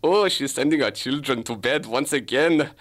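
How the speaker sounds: lightly put-on German accent; hint of a hammy German accent; German detective. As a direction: play an amateur German detective on surveillance. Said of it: "I'll play the German detective".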